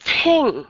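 "thing" said as a plain t, like the word ting; "thing" with no th and no breath puff; "thing" read as ting, the wrong way. Shown as a demonstration. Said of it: "thì nghe nó hơi kỳ".

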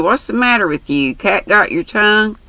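lightly voiced brash country girl; chatty, bold young girl. Mary teasing.

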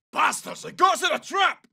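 alarmed soldier's combat yell; alarmed callout. Acted. Soldier warning the squad of a trap, alarmed yell. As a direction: cry out that it's an ambush.

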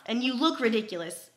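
talking around teeth device; mouthpiece in mouth. Real, not acted. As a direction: lips pressed on tray. Seen 0: White whitening device held pressed at her lips throughout labelled words.

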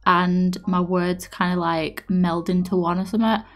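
slightly slurred, numb from dentist; numb mouth from the dentist. Real, not acted. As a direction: talk with one side of the mouth numb. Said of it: "I'm all numbed on one side".

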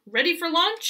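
goat calls loudly from the barrel; calling out. Acted. Goat calls to the hen before launch, high and loud. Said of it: "he called".

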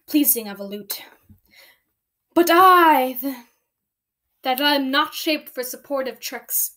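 theatrical Shakespearean soliloquy with emphatic swells; dramatic monologue. Acted. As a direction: declaim it as a scheming villain's stage speech. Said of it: "Time for dramatic".

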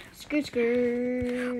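drawn-out playful skidding sound; mouthed car skid; tire screech noise. Pretend. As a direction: imitate tires skidding round a corner. Imitates tyres while driving.

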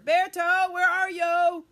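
loud calling. Shown as a demonstration. Storyteller calls for the missing puppet, loudly. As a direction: call his name out loud across the room.

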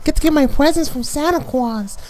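high, squealing fake excitement over presents; mock giddy child. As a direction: gush like a kid on Christmas morning. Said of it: "You should be giddy".

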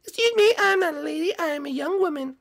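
put-on high girl's voice, indignant; offended young woman. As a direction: correct him sharply. Girl correcting being called lady.

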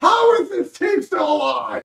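disbelief. Real, not acted. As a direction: ask it in open disbelief. Disbelief at team surviving.

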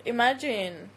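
"Imagine" in the speaker's own foreign accent; accented "Imagine", said in passing. Real, not acted. Streamer musing to viewers, foreign-accented "Imagine". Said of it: "I love when you say imagine".

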